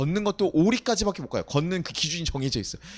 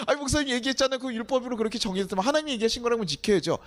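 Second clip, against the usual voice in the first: retold objection; 7 semitones higher than usual. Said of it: "그래서 제가".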